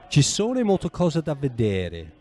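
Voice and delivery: Ci sono molte cose da vedere said slowly in Italian, every word clear; slow Italian phrase. Shown as a demonstration. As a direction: teach the phrase slowly to a learner. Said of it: "Here it is".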